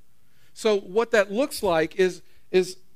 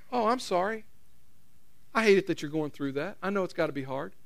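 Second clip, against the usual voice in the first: gentle reply; 4 dB quieter than usual. Pretend. Jesus voiced replying.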